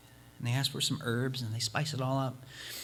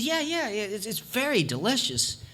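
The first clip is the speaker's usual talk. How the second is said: eager traveler; 5 semitones higher than usual. Acted. Traveler sells soup eagerly.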